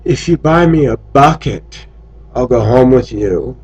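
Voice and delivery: a light hint of a lilting Asian accent. Filipina at karaoke propositioning him, lightly lilting Asian accent. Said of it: "in her lilting Asian voice".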